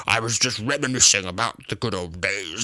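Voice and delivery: a light mock army sergeant; lightly voiced gruff sergeant. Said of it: "army sergeant voice".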